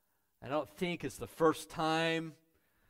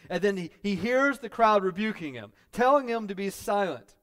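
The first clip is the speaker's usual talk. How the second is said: loud, high-pitched preacher's tirade; driving, raised pulpit voice; forceful preaching; 8 semitones higher, 11 dB louder than usual. Acted.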